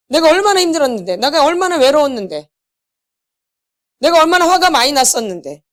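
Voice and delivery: 조금 높고 서러운 하소연; 억울함을 부모에게 쏟아내듯; 부모를 향한 하소연. Pretend. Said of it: "엄마, 아버지 막 얘기해". (어린 시절 상처를 부모에게 토로하는 서러운 목소리)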